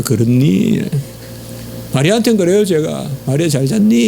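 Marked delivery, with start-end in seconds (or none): 0.0-0.8 softened, lower and kinder; a gentle Gyeongsang question; gentle tone demo. Shown as a demonstration. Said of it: "저도 한번 해볼게요". 3.3-4.1 a husband's gentle good morning; tender greeting. Shown as a demonstration. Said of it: "이렇게 해요".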